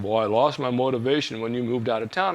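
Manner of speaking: imitating a friend's monotone voice; lightly mocked, level-pitched delivery. Inactive friend excusing himself to his old training partner, mildly monotone. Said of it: "in his monotone voice".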